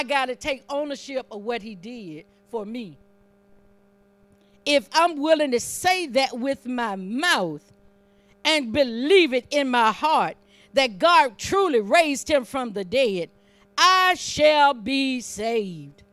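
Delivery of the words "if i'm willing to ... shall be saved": punched phrases building to a slow, drawn-out close; emphatic preaching. Real, not acted. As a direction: drive it home, then stretch the last phrase. Preaches to a climax.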